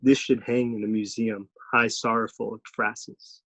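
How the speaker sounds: measured poetry reading with deliberate pauses; poem recital. Acted. Student reading own poem for an arts audience, measured recital. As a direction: read it as a poem, line by line.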